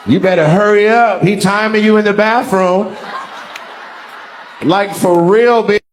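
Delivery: hammed-up warning, rising in pitch; mock urgent friend. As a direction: play a friend's pressing warning. Reads out friend's warning text mockingly.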